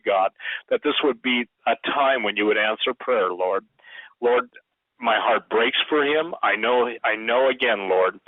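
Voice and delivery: earnest intercessory prayer; praying. Real, not acted. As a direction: pray aloud fervently for him.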